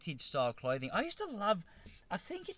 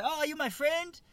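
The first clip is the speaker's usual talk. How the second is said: put-on high, loud Asian-accented exclamation; badly faked Asian accent, high and loud; mock Asian accent; 12 semitones higher, 5 dB louder than usual. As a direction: imitate the hairdresser in a rough Asian accent, pitch jumping up. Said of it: "do the Asian accent".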